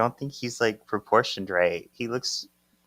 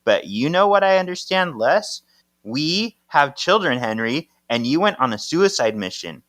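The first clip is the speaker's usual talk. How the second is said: higher, louder mock scolding; retold angry yell; 5 semitones higher, 4 dB louder than usual. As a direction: scold him like a wife who has had enough. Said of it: "Paige is yelling at Henry".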